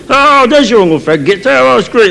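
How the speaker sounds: high, thrilled mock kid; excited child. Child on stage spotting uncle, excited high voice. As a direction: burst out as a delighted child.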